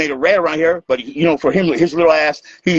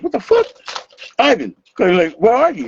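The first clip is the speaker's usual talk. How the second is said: high, incredulous call to Ivan; mock shocked shout, pitched way up; retold disbelief; 10 semitones higher than usual. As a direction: demand to know where he went. Finding everything gone, calling Ivan.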